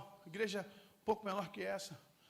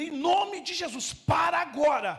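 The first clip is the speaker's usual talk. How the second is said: loud, slow, higher rebuke; commanding shout; 7 semitones higher, 15 dB louder, slower than usual. Retold or imitated. Pastor ordering the angry man to stop, loud commanding shout.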